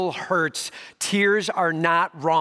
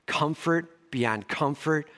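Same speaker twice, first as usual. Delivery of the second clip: excited Paul; 3 semitones higher than usual. Retold or imitated. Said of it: "Paul's like".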